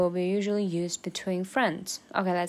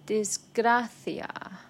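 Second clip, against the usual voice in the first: slow demo; 2 semitones higher, much slower than usual. Shown as a demonstration. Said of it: "slow teaching demo".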